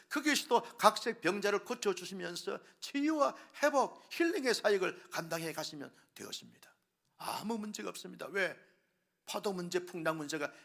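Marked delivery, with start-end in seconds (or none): none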